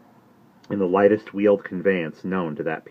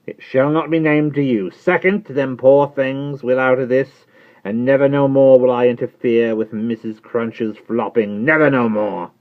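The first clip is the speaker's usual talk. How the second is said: solemn trembling Jerry; 7 semitones higher, 8 dB louder than usual. Acted. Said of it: "returned Jerry".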